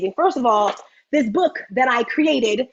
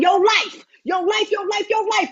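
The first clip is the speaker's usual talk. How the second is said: higher, shouted repetition; excited shout; 7 semitones higher than usual. Real, not acted. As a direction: pump up the crowd. Hyping speaker's topic.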